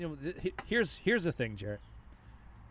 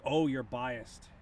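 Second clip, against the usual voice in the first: mocking; 6 dB louder, much slower than usual. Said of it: "it's like".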